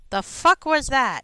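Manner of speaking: slow, loud high pixie voice; drawn-out squeaky fairy. Pretend. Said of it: "practice my pixie voice".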